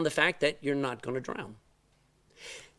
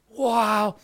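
awed wow; 4 semitones higher, 4 dB louder than usual. Retold or imitated. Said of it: "You just go".

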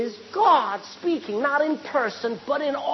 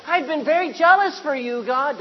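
direct address; 5 semitones higher, 7 dB louder than usual. Shown as a demonstration. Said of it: "He didn't say".

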